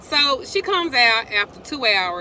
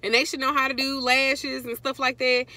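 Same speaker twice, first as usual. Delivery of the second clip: whiny daughter; 7 semitones higher than usual. Retold or imitated. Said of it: "now she boo-hooing".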